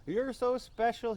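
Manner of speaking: put-on crying drunk grandmother. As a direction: imitate a tipsy granny pouring out love. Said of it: "things they say when they're drunk".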